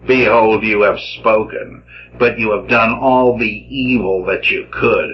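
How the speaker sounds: emphatic reading of a prophet's rebuke; dramatic scripture reading. Acted. Lecturer reading Jeremiah's rebuke to his listeners, declamatory. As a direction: proclaim it, with the quoted words lifted in pitch.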